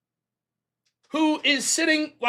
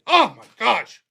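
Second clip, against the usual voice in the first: a hammed-up show of being stunned; faux incredulity; 2 semitones lower, 4 dB louder than usual. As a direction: play fake disbelief, pitch jumping up. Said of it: "And then faux incredulity".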